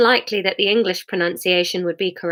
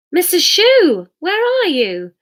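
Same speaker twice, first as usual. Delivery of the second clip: Hamish voice; 10 semitones higher, 5 dB louder, slower than usual. Acted. Hamish calling out.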